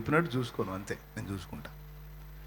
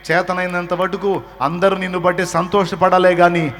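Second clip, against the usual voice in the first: loud, climactic sermon delivery; preaching at full force; 11 dB louder than usual. Acted. Preacher exhorts the congregation, loud and climactic. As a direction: drive it home to the crowd.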